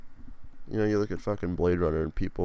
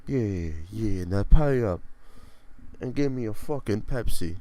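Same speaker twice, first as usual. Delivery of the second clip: mock demand; 4 semitones higher, 8 dB louder than usual. Mafia enforcer demanding payment.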